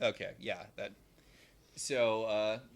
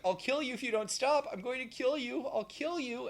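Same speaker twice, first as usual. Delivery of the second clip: threatening evil son. Retold or imitated. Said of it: "Evil Wyatt keeps on being like".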